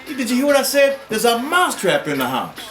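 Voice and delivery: frantic mouse. Acted. Mouse begging the pig to hear about the trap, frantic and high. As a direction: plead urgently, pitch rising.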